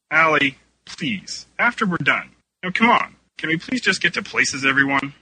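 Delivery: high, strained plea for cooperation; exasperated pleading. A narrator's reading. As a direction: plead with the unruly cast. Director pleading with unruly cast.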